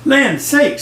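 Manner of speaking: middle-sized Mama Bear. A narrator's reading. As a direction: exclaim high, as Mama Bear. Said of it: "in her middle-sized voice".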